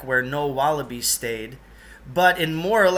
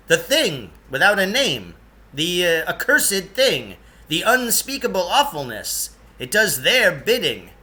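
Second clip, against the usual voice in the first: raised, ominous dramatic telling; a touch of spooky theatrics; dramatic Lance voice; 4 semitones higher, 4 dB louder than usual. Acted. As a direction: make the monster sound dreadful. Character voice of Lance.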